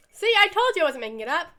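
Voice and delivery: loud, high told-you-so; triumphant yell. Acted. Teresa proving she didn't make it up, yelling triumphantly. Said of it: "yells out to global warming triumphantly".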